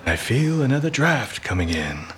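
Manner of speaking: mocking echo. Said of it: "Nice one".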